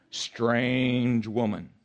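very slow, drawn-out echo; the warning repeated slowly; a hint of the Lord's voice. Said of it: "hear the voice of the Lord saying".

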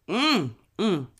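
pleased hum after a sip; satisfied sipping hum. Real, not acted. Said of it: "take a sip of my".

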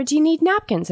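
sweet, high-pitched polite question; very nice. Retold or imitated. Shop worker kindly offering napkins to a customer, very nice. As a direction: imitate a nice, helpful offer in a lifted voice. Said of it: "she says very nicely".

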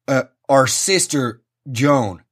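slow, low mock mid-Atlantic priest; mock-solemn mid-Atlantic drawl; booming mid-Atlantic drawl. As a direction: correct it solemnly in a drawn-out American drawl. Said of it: "with his big booming fucking mid-Atlantic drawl".

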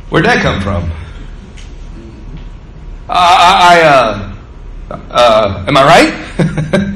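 bewildered Peter. Retold or imitated. Peter stunned by his own answer.

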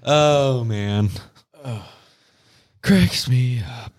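cracking up while telling; laughing. Real, not acted. Laughing at Boo scene.

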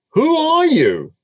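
put-on high, startled old father asking who's there; alarmed Isaac. Blind father to the son before him, high startled question.

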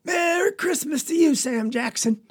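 high hailing call. A narrator's reading. Papa hailing Sam Jackson up the lane, high call. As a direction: hail a neighbour coming up the lane. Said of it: "we hear Papa call out".

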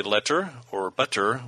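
"letter" and "butter" with fully sounded T's; highfalutin crisp T. Shown as a demonstration. Showing how formal pronunciation sounds, crisp T's in "letter" and "butter". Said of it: "sounding like some highfalutin English person".

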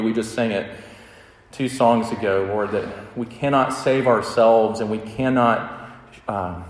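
earnest, hushed pastoral prayer. Acted. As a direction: pray over the congregation, humbly. Opening prayer before sermon.

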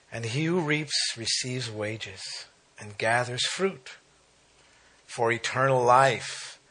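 slow, measured Bible reading; scripture reading. Acted. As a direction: read the verse out deliberately, with weight. Reads scripture aloud.

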